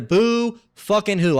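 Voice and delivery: slow sneering dismissal; mocking scorn. Real, not acted. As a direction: drag it out with contempt. Mocking the complainers' self-pity.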